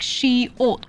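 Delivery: slow "she-ot" in two separate syllables; pronounced she-ot. Shown as a demonstration. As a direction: stretch "she-ot" apart as sh-ee, ot. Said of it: "you pronounce it like".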